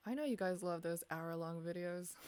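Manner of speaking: dry sarcastic tone. Acted. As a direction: say it deadpan, sarcastically. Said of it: "Slash sarcasm".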